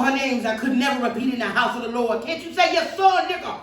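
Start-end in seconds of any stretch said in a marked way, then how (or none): 2.2-3.6 high, loud, jabbing demand; bully the prisoner with each question; a jailer screaming at a woman being beaten; retold screaming. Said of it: "I kept hearing a man screaming".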